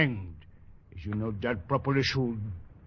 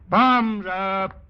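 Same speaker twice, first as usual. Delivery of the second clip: louder, higher command; barked order; 5 semitones higher, 5 dB louder than usual. Acted. Sergeant barking orders at the recruits. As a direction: snap the order out.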